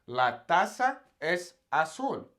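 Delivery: "La taza es azul" slowly, every Z as a clear S; "taza" as tasa, "azul" as asul; Latin American pronunciation. Shown as a demonstration. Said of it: "that's how I say it".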